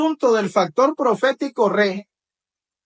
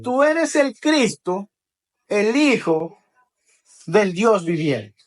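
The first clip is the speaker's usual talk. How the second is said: solemn confession; slower than usual. Acted. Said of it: "Pedro le dijo".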